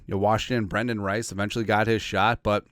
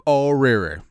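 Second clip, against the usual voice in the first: mock lament; 4 semitones higher, 6 dB louder, slower than usual.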